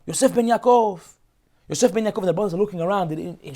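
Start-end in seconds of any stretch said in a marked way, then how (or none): 0.1-2.2 high ringing call of the name. Acted. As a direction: call the name out across the hall. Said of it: "He starts calling out".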